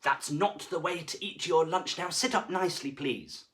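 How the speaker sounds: a hint of a stern teacher; deputy head scolding the monster, lightly stern. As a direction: tell them off like a strict head. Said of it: "said Mister Jed".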